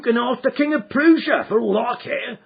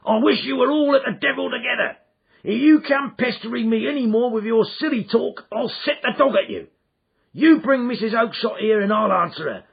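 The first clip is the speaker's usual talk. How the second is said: loud, much higher furious yell; angry shout; 14 semitones higher, 7 dB louder than usual. Acted. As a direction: bark the pestering man away. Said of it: "he shouted".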